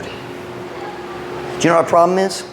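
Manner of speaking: slow whispered question to the congregation; hushed question. Acted. Preacher confiding the real problem to his flock, whispered. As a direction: lean in and breathe it.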